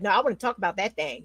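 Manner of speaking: quick, insistent auntie voice; Aunt Mary's voice. Retold or imitated. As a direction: play the pushy aunt who wants to talk. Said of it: "as in Aunt Mary's voice".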